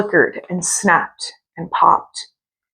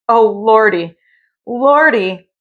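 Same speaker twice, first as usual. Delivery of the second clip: frightened moan; 3 semitones higher, slower than usual. Acted. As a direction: groan in terror. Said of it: "shivered and shook and moaned".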